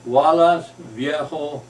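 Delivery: high, very loud shout; big forceful yell; coach's loud demo. Shown as a demonstration. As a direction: shout it out to show how. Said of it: "let it be how you do it".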